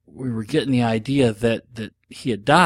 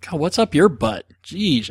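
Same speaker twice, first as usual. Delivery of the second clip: exasperated; 5 semitones higher than usual. Retold or imitated. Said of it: "until someone goes".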